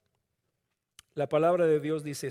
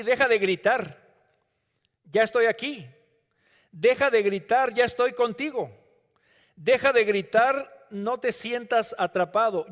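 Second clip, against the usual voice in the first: sermon cry of comfort, raised; fervent reassurance; 3 semitones higher than usual. Acted. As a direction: urge them to stop shouting. Preacher voices Jesus comforting listener.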